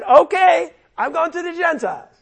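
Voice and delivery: high, hurried, exasperated declaration; Paul, fed up. Acted. Preacher as Paul giving up on his hearers, exasperated. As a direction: throw up your hands and announce you're leaving. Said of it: "that's the tone".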